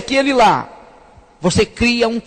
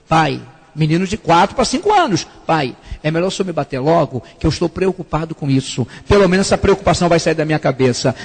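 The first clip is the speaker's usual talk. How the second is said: put-on lower, earnest child's plea; a hint of a worried little boy; small boy; 6 semitones lower than usual. Four-year-old son begs his father to spank him now. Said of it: "child answers his father".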